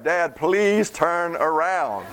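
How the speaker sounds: put-on slow, drawn-out kid plea; pleading kids. Kids in the back seat begging dad to turn around, whiny and slow.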